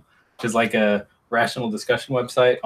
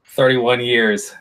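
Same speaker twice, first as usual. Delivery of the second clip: drawn out; much slower than usual. Real, not acted. Stretched for emphasis.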